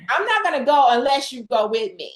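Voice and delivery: lightly mimicking a reluctant man; mocking, milder. Guest retells Barak's refusal to Deborah, lightly mocking. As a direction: repeat his refusal with a touch of mockery. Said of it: "I'm just mocking his way".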